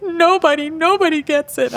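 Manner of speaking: put-on high, emphatic child voice; imitated little girl. Mom imitating her daughter at a party, high emphatic child voice. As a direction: declare it like a stubborn preschooler.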